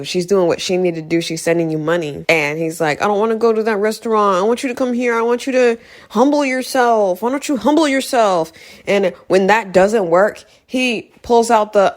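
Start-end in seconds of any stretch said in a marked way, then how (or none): 3.0-8.5 higher-pitched imitation of a demanding brother; mocking demands. Brother telling her to humble herself, mocking and higher. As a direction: pitch it up to mock his demands.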